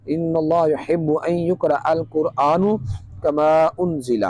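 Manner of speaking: slow, measured Arabic recitation. Shown as a demonstration. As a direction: recite it slowly, drawing out the long vowels. Reciting Arabic hadith in lesson. (ٹھہر ٹھہر کر عربی قرأت)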